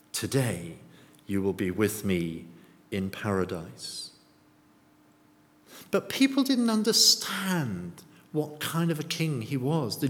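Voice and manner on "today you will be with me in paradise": low, softer, spaced-out comforting words; gentle reassurance. Acted. Speaking by the bedside of someone dying, gently reassuring. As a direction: reassure tenderly, pausing between phrases. Verse said at a deathbed.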